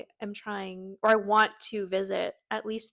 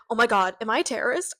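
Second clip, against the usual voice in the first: mock panic; 6 dB louder, faster than usual. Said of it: "and I'm like".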